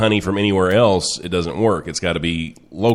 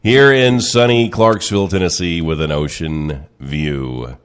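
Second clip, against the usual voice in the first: radio host intro; 2 semitones higher than usual. Acted.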